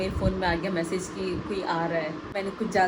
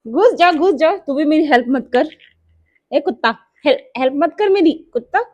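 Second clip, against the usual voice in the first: loud, higher playful scolding; playful shout at the dog; 6 semitones higher, 9 dB louder than usual. Real, not acted. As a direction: shout at the dog hiding underneath, half laughing. Shouting at the dog under furniture. (कुत्ते पर मज़ाक में चिल्लाना)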